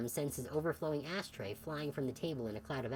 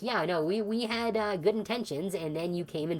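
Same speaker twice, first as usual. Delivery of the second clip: louder, higher half-joking rant; mock blunt outburst; 3 semitones higher, 5 dB louder than usual. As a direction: blurt it out like a sarcastic confession. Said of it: "It'd be like".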